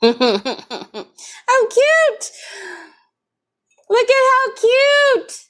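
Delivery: high, slow cooing over something cute; gushing. Real, not acted.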